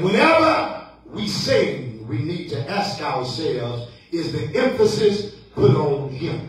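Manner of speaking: measured pulpit cadence with stressed key words; preaching refrain. Acted. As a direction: put the challenge to the congregation.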